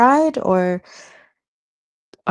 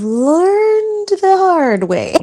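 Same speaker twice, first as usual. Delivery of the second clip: voice breaking; 12 semitones higher, 7 dB louder, much slower than usual. Real, not acted. Emotional confession, voice breaks.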